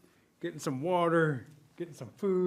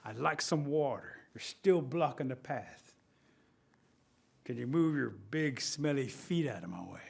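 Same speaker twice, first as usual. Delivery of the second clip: taunting; 3 semitones lower, 4 dB quieter, slower than usual. Acted. Rabbit taunts bear slowly.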